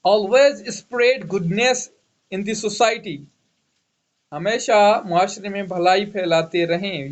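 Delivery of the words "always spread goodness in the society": very slow and measured, word by word; slow dictation. Shown as a demonstration. Teacher dictating an example sentence for students, slowly. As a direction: spell it out slowly so the class can write. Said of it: "dictating an example sentence".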